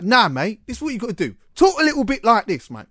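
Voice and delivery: high, hammed-up DJ patter; mock radio presenter voice. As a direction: imitate the producer demanding a radio voice. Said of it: "Say it a bit like that".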